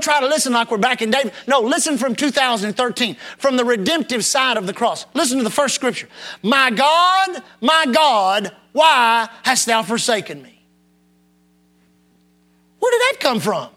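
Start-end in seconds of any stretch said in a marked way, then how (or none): 6.4-10.6 crying out. Acted. Reads psalm cry aloud.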